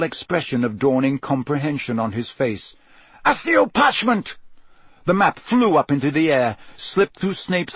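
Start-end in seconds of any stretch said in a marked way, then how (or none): 3.2-4.4 spell cast. A narrator's reading. Casting a summoning spell.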